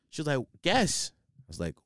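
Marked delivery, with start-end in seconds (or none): 0.6-1.1 1 teasing friend. Retold or imitated. Jazz voiced teasing.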